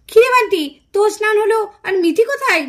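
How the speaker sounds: aunt calling Bunty, loud and friendly. Acted. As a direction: call across the room to Bunty.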